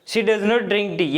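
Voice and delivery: very slow, word by word; slow teacher dictation of she does not drink tea. Shown as a demonstration. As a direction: spell it out slowly for learners. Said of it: "negative".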